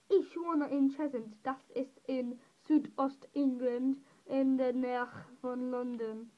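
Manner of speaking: careful, slowed German with an English speaker's accent; showing off German. Shown as a demonstration. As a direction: recite schoolroom German, stretching it out. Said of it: "here's my chance to speak a partially German".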